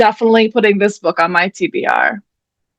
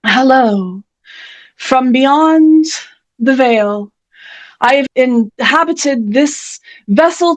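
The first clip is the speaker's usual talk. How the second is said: lightly voiced ghostly author, a touch grand; Selma Lagerlöf; slower than usual. Channeled author greeting the Zoom audience, lightly ghostly. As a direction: greet the living as a visiting spirit. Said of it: "delighted to channel her spirit today".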